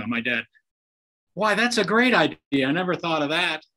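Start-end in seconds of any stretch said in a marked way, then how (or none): 1.3-3.6 higher and louder, mock amazed dad; mock delighted surprise. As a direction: play up the fake discovery, ironic. Dad's ironic reply in golf story.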